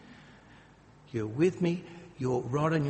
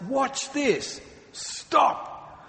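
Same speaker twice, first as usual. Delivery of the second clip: playful command; 10 semitones higher, 3 dB louder, much slower than usual. Retold or imitated. Jesus calming the storm, acted.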